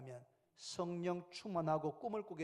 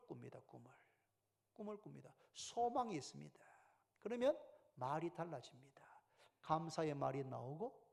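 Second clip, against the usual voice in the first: hushed, intimate whisper; whispered preaching; 4 semitones lower, 8 dB quieter than usual. Real, not acted. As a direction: lean in and whisper the promise. (속삭이듯 조용히 설교)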